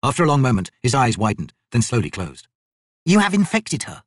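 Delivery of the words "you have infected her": slow, higher accusing wizard. Acted.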